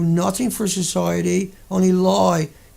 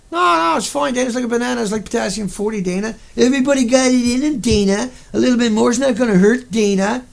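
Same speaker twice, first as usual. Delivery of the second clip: mock reassurance; 3 semitones higher than usual. Sneering at officials telling Dana radiation is fine, patronizing singsong. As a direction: play the smug official soothing a fool.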